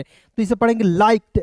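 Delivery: लाइक्ड with a clear final t sound; pronounced liked. Shown as a demonstration. Teacher showing students how to say लाइक्ड. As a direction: say लाइक्ड ending crisply in kt. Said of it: "डी है लगा हुआ".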